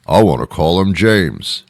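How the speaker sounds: digging in for James; the other parent arguing back. Retold or imitated. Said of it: "couldn't make a decision".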